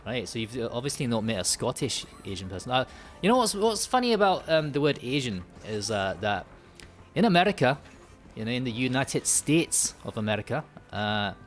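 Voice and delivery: put-on Scottish accent in casual chat. Shown as a demonstration. Streamer chatting to viewers after switching, put-on Scottish accent. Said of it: "I go Scottish and I say".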